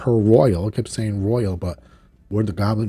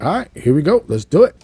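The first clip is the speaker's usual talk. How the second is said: gung-ho, raised pitch; game agreement; 6 semitones higher, 5 dB louder than usual. Retold or imitated. Scott answers Bishop's call to hit him, gung-ho. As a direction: briskly voice a hero ready for action.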